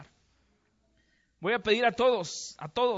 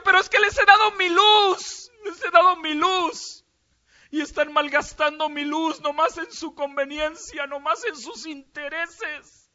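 very high, loud crying voice; Jesus sobbing that his light is wasted, high and loud; 8 semitones higher, 8 dB louder, slower than usual. A narrator's reading. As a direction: wail it out through real tears. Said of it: "Y Jesús lloraba, hermanos, con tanto dolor".

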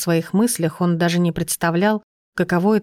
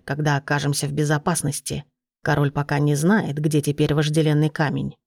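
put-on lower, steady old gnome; 3 semitones lower than usual. Narrator voices the gnome.

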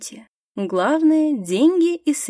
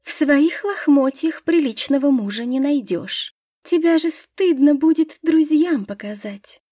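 put-on sneering mean girl, pitched up; scornful, higher; 5 semitones higher than usual. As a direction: look down on her and sneer. Насмешка Кассии над Лидией. (презрительно, с насмешкой)

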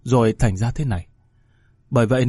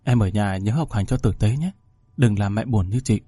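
put-on tearful older sister. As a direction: soothe the little sister through tears. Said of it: "ôm nhau khóc rưng rức".

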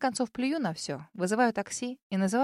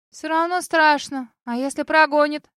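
put-on nervous girl voice; 6 semitones higher, 8 dB louder than usual. A narrator's reading.

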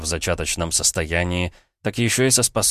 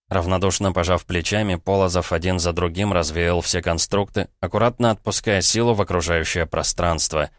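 plain reading voice

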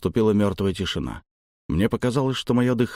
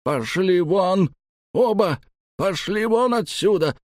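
much higher, slow, roaring out; furious yell; 10 semitones higher than usual. Acted. The old man throws both lads out, a slow, much higher furious yell. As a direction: bellow them out of the house. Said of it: "заорал Раск".

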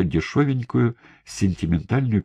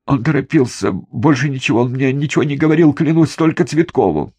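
fast, high, louder frightened babbling; panicked rush; 7 semitones higher, 5 dB louder than usual. A narrator's reading. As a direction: spill it all out before the knife. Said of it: "Дмитрий заторопился".

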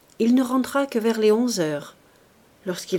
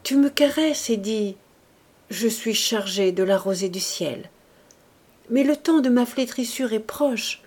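récitation émue, la voix qui se brise par moments; voix entrecoupée. Acted. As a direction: lire le chant d'Ossian au bord des larmes. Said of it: "lut d'une voix entrecoupée". (légèrement entrecoupée, un peu plus haut et plus fort)

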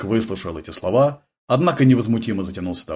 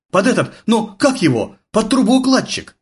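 higher, blurted out at last; 11 semitones higher, 4 dB louder than usual. A narrator's reading. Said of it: "выпалил, наконец".

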